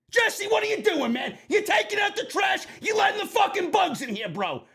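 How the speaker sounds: exasperated yell. Real, not acted. Streamer shouting at producer Jesse for letting bugs in, exasperated yell. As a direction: chew out Jesse, half laughing.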